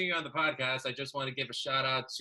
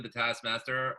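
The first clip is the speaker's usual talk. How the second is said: ordinary delivery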